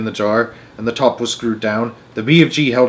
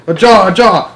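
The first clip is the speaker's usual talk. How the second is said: high, loud hurried calls; urgent excitement; 9 semitones higher, 6 dB louder than usual. A narrator's reading. Giant urges Sophie to hand him a jar, high and eager. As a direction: rush her for the jar.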